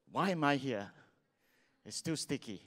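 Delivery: ordinary delivery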